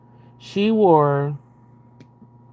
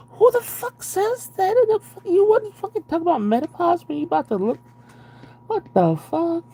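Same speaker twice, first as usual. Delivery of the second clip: outraged high squeal; 12 semitones higher than usual. Real, not acted. Reader squealing at the book's menopause line, outraged. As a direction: voice shoots way up in disbelief.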